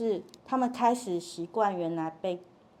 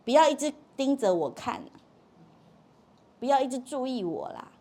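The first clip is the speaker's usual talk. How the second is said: higher-pitched mock protest; protesting child; 5 semitones higher, 4 dB louder than usual. Child to watching parent, higher-pitched protest. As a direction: object like a child who feels watched. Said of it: "所以他抗议不是抗议你哦".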